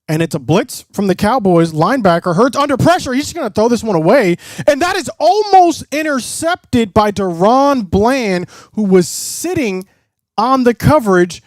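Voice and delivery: quick, rising play-by-play call; urgent football commentary; live play-by-play. Real, not acted.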